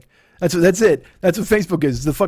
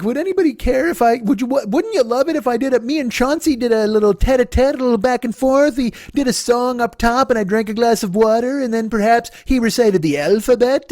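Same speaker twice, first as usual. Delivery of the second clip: higher, prissy mock pitch; mocking puppet guy; 5 semitones higher than usual. Comic mocks a puppeteer pitching his show, prissy. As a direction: mimic a smug performer pitching his show. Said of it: "this motherfucker's just like".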